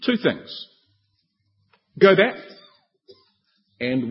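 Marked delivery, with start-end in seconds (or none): 2.0-2.3 "Go back" lifted high and loud, hammered home; stress on Go back. Shown as a demonstration. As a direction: punch "Go back" as the first key point. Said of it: "put his finger right on the key issue".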